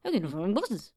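slurred, clipped try at the made-up accent on "I can't find my glasses"; guessing at the made-up accent, asking whether this is it. Shown as a demonstration. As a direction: swallow the words in a tentative made-up accent. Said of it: "would it be like".

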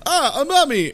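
high startled yelp at a mummy; mock surprise. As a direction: squeal it like a scared kid. Kid finds a mummy, acted.

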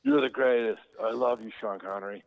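mock adoring outburst; fan gushing. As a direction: imitate a starstruck fan calling to an idol. Retold tail end of fan's gushing.

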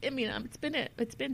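words catch as real emotion rises; choked-up whisper. Real, not acted. Telling viewers about her diagnosis, whispering through real tears. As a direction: voice drops to a breathy whisper, fighting tears. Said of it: "emotional about it".

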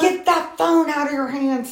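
high, slow imitated order; mock yell. Older man ordering caller off the phone, imitated yell. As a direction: imitate a man calling out a warning, drawn out. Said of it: "yelled across the parking lot".

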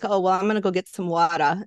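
Long Island "wawter" slipping in; Long Island accent. Shown as a demonstration. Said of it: "talk to somebody from, like, N-, New York".

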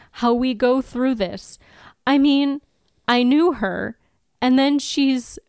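fighting not to cry, confused grief; Anya's grieving outburst, near tears; holding back tears. Acted. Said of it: "I am trying not to cry".

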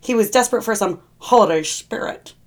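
sly, sneering Grinch; lightly voiced Grinch punchline. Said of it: "use the Grinch voice".

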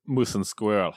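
lightly done cartoon Russian accent; a hint of comic Russian villain; mock Russian accent. Teasing about Eastern European accents, mock Russian accent. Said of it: "That's Russian".

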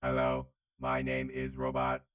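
flat, even robot voice; old speech synthesizer. Acted. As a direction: speak like a stiff robot. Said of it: "I am a robot".

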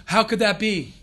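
gasp, then a lightly scandalized question; mock shock. Rabbi imitates a shocked reaction to his teaching, mock shock. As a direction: put on a touch of disbelief.

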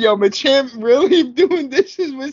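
laughing high bro voice; cracking up while quoting; frat bro. Retold or imitated. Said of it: "I was like".

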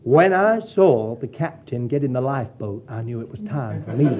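a light hint of a Southern drawl, retelling the old lady's reply; lightly imitating an American Southern lady's drawl. Preacher retelling an old Southern lady's witty reply, hint of a Southern drawl. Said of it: "in that marvelous Southern drawl".

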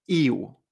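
"I U" glided as i-u without an o; wrong pronunciation. Shown as a demonstration. Teacher warns of a sound never heard in Chinese, wrong pronunciation. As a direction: run "I U" together as Spanish iu. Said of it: "nunca en chino vamos a escuchar".

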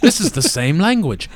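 British immigrant. Acted. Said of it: "And he's like".

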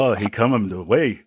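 lightly put-on broken English, half laughing; mock broken English. Friend jokingly illustrates the Peter Pan example, mock broken English. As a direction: imitate stereotyped film broken English, amused. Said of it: "the broken English".

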